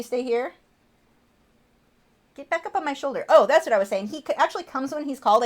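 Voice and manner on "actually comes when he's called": ordinary delivery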